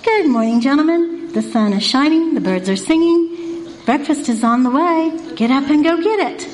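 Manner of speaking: gentle singsong morning greeting; pleasant wake-up call. Shown as a demonstration. Speaker waking the men in the morning, pleasant. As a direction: coax them up kindly, phrase by phrase. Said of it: "Or you can say".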